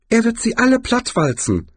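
sehr hohe, hüpfende Kinderstimme; Jaspis. Acted. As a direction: ein junger Troll, vergnügt. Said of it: "meinte Jaspis und hüpfte". (hohe, vergnügte Stimme)

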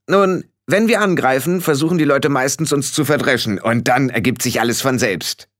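lightly voiced little fighter, starting high; confident Rob. Rob explains the attack to Frau Grad, confident. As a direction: explain a simple battle plan confidently.

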